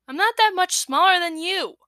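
scowled. Acted. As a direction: scowl through the words. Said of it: "I scowled".

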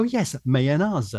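"mayonnaise" slowly echoed with -ah-zuh ending; eager copied pronunciation. Retold or imitated. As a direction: copy the foreign "mayonnaise", long ah, drawn out. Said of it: "And I go".

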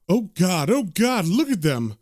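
mildly acted horror at a grisly sight; a touch of alarm, voice lifting on the cries; recoil, lightly acted; horrified reaction. Horrified couple react to corpses.

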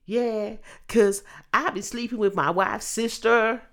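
lightly put-on Texan accent; southern American accent. Talk-show guest confessing to the host, mock Southern accent. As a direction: imitate a guest in a mild Southern drawl. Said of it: "You sound like you're from Texas".

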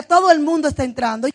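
loud, assured retold claim; firm, booming assertion at a steady pace; confident claim. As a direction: quote him declaring it with conviction. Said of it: "Teo me decía".

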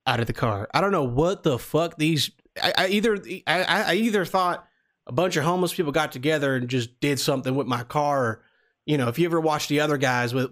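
put-on Southern accent. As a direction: play a friendly Southern country guy. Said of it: "do the same Southern accent".

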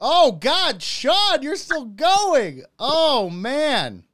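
loud, high-pitched exclaiming; reeling from a shot. Real, not acted. Host watching Sean still drinking, reeling yell. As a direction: cry out in strained disbelief.

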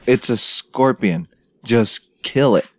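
slow, unfazed matter-of-fact delivery; retold no-big-deal tone; unimpressed retort. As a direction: spell it out slowly to panicking dudes. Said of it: "And I was like".

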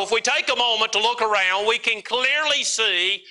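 insistent sermon delivery with repeated refrains; preaching. Real, not acted. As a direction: preach a mounting list, phrase by phrase. Preaches a list of troubles.

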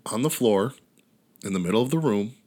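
hushed, breathy story whisper. Acted. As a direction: drop to a spooky whisper.

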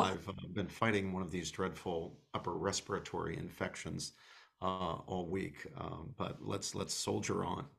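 hoarse, croaky voice from a cold. Real, not acted. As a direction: speak through a sore, croaky throat. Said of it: "apologizing for my croaky voice".

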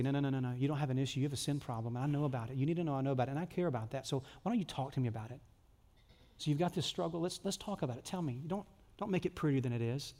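soft, caring father voice; tender fatherly God. Pretend. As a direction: coax them to open up kindly. God voiced inviting confession.

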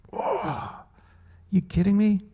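a high, startled whoa then disbelief; shocked disbelief. Pretend. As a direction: react as if you cannot believe the command. Shocked reaction to imagined command.

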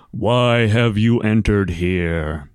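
slow, echoing disembodied voice; unearthly voice. Acted. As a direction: speak as a voice from everywhere. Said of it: "a strangely disembodied voice".

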